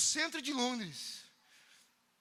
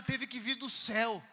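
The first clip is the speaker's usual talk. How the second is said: slow and shouted; slow emphatic shout; 4 semitones lower, slower than usual. Retold or imitated. Preacher to drug dealer, slow shouted punchline. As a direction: land it from heaven.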